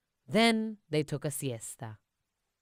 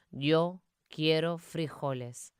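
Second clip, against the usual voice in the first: somber. Acted. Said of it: "in his most somber voice".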